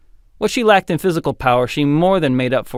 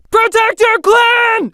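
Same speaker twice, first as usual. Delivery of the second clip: slow, high, loud war chant; bellowed battle cry; 7 dB louder, slower than usual. A narrator's reading. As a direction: rouse the warriors to fury. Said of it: "shouted Erlach".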